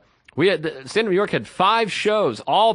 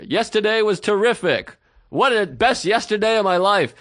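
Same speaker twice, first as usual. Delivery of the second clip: vague overeager answer; 5 semitones higher than usual. Retold or imitated. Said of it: "a very broad answer".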